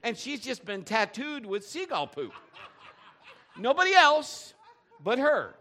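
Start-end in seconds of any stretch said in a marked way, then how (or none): 3.6-5.5 laughing. Real, not acted. Laughing at mom's seagull story.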